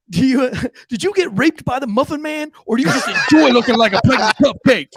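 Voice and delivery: high, loud sergeant's tirade; yelling. Retold or imitated. Drill sergeant berating the kid over his lunchbox, yelling. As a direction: build to a big mocking finish. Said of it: "he starts yelling".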